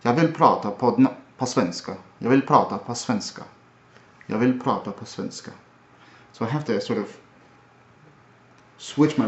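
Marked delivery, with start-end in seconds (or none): 0.0-5.5 Jeg vil prata på svenska in a Swedish accent. Shown as a demonstration. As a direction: switch into Swedish mode. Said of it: "And then Swedish is".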